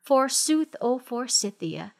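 grand, slow dramatic poetry reading; hammy stage actor. Pretend. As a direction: ham up the mournful verse. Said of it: "Would you read it for us?".

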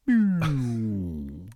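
quick mock pleura sliding-down noise, half laughing; pleura sound effect. Shown as a demonstration. Asked by co-host for a live demo, playful sound effect. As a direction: make the pleura sound on request. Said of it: "do a live demo".

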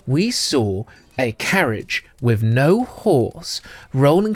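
lightly voiced, hushed gossiping ladies; a hint of two scheming sisters telling a tale; conspiratorial twins. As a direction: lean in and share a secret. GM voicing the twins.

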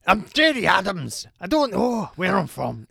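gruff Irish impression; a gruff put-on politician voice; Gerry Adams voice. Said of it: "very gruff voice".

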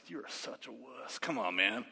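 low, very soft imitated grumble; muttered disgust. Cousin looking at the boy after the bird flies, low muttered disgust. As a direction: mutter it under your breath.

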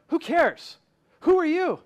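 loud, high scoffing challenge; passionate mock scorn. Preacher voicing his own pride to the congregation, scornful shout. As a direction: throw the proud question at yourself. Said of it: "That's why I'm talking passionately".

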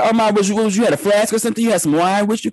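high, disbelieving voice to his mom; incredulous question. Retold or imitated. Son questioning his mom, high and incredulous. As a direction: pitch it up in disbelief. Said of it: "I was like".

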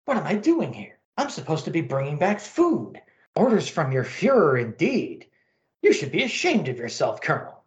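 scolding alien pilot voice; indignant alien pilot. Acted. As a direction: tell the colonel off, reproachful. Pilot remembers, scolds colonel.

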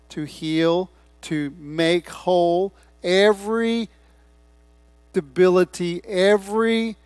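loud, slow, punched key words; emphatic preaching. Real, not acted. Preacher declaring the gospel's power to congregation, emphatic preaching. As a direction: preach it with weight, stretching "power" and "every".

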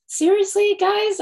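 can't believe this is still a debate; exasperated. Real, not acted. Cohost rants to listeners about coal, exasperated disbelief.

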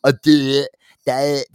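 lightly voiced dimwit, laughing; mock a slow-witted guy; dopey duh voice. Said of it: "he's just kind of like a".

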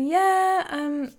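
evasive, reluctant. Retold or imitated. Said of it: "he's kinda like, I don't wanna answer".

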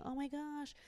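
put-on a touch of amazed fuss over a baby's hair; amazed coworker. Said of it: "Anna came in here saying".

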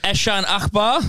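"Eshan Akbar" opened with a short "Esh"; tentative mangled "Eshan Akbar", pitch lifting at the end; mispronounced name. Real, not acted. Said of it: "that's pronunciation number seven hundred and thirty-three".

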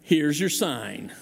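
slow, drawn-out punchline; deadpan Here's your sign, slow; Engvall catchphrase. Retold or imitated. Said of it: "that line was".

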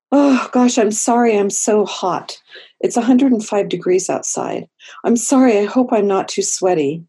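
mock-anxious client who can't stop saying sorry; over-apologetic client. Client arriving late and hot, apologizing to the therapist, flustered. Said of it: "they'll come in and they'll say".

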